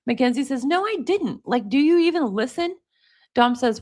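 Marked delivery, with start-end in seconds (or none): 0.6-2.8 mildly exasperated, pitch lifted at the start; mock indignant protest. Girlfriend denying it to boyfriend in read-out texts, indignant. Reading a couple's texted quarrel.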